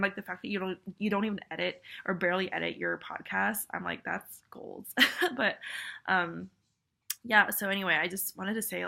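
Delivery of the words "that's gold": whispering. Retold or imitated. Quoting her own inner reaction.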